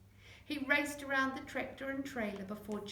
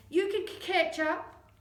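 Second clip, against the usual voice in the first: high, loud encouraging yell; 8 semitones higher, 8 dB louder than usual. Acted. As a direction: urge him on loudly. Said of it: "yelled Connor".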